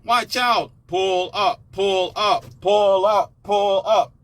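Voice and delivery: high, loud shouts of warning, pulling up over and over; shouted warnings. Retold or imitated. Warning listeners before the crash, shouting high and loud. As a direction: yell it like a panicked co-pilot. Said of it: "I said".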